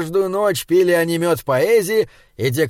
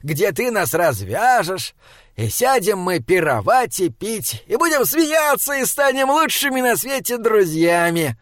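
hopeful; 5 semitones higher than usual. Acted. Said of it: "с надеждой сказал Фьялар".

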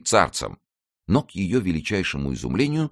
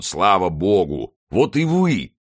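hearty greeting rising high and louder; exclaiming; 4 semitones higher, 4 dB louder, slower than usual. A narrator's reading. Porthos welcomes D'Artagnan at last, exclaiming. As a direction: greet a long-awaited friend, lifting to a high cry. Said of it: "воскликнул он".

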